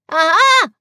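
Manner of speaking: Piglet's shaky aha after his terrifying journey; weak aha. A narrator's reading. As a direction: try to sound knowing and fail. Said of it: "said Piglet again".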